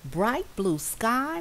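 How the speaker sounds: high, slow, wondering mouse; awed murmur. Acted. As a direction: savour each word in awe. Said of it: "murmured Little Mouse".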